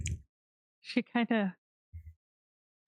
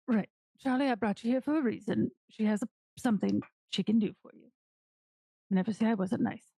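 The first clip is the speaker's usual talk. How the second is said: put-on Morty's accent; 3 semitones higher than usual. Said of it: "he kinda just has his hand".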